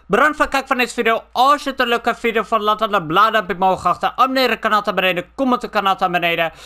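fast, upbeat sign-off read; a hurried YouTube outro; quick outro. Acted. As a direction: rattle off the outro lines quickly. Rushed outro for the channel.

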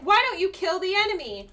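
mildly hammed-up retold demand; mock squadmate nagging. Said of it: "They're like".

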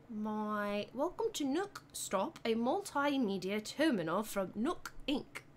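put-on British accent; amateur British announcer accent. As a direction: try on a careful British accent. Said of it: "Try your British accent for one minute straight".

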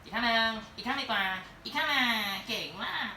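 cheerful Disney-style coaxing; high coaxing voice. Real, not acted. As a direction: coax the dog for the other paw. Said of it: "เป็นแบบ Walt Disney เลย".

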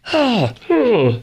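high goofy honk sliding down; mock a moron with swooping empty syllables; Hakeem Jeffries. Host doing his politician impersonation, high falling "ha". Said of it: "I wish you could see me on my Hakeem Jeffries impersonation".

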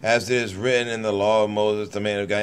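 measured, solemn Bible reading; deliberate King James recital; scripture reading. Acted. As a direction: read the verses steadily like a lay preacher. Reads scripture aloud.

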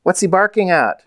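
high-pitched, falling exclamations; boy's mild shout. A narrator's reading. Boy bursts through bushes after his dog, mild shout. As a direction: call out in a high voice. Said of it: "a boy broke through the bushes shouting".

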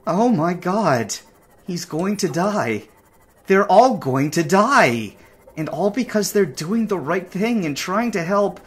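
horrified at their coming deaths; anguished disbelief; dismayed distress. Real, not acted. Realises rescuers will die.

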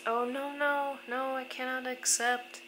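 polite refusal. Retold or imitated. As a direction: act out a host declining money. Host refusing money, retold.

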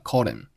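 "called him" run together, h dropped; linked words. Shown as a demonstration. Teacher showing learners linking, "called him" as one word. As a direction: slide "called" into "him" without the h. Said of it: "called和him连读成了".

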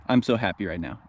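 quietly thrilled, voice kept way down; hushed joy. Real, not acted. Hunter murmuring his delight to the camera, hushed. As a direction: keep it soft so the birds don't hear.

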